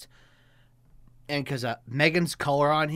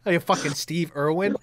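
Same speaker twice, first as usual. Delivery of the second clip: normal talking voice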